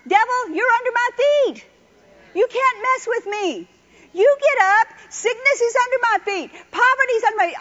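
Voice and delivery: loud, high, defiant; defiant declaration. Shown as a demonstration. Preacher showing the congregation how to rebuke the devil, loud and defiant. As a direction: command the devil to stay down. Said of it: "you wake up in the morning".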